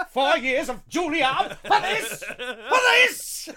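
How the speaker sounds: shouting, slow and loud; hammed-up actor's tantrum; mock outrage. Staged tantrum at auditions.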